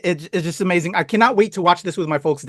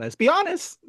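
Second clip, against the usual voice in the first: playful whispered echo, higher; 11 semitones higher, 6 dB quieter than usual. Real, not acted. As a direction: whisper it back like sharing the secret. Host echoes guest's whispered aside.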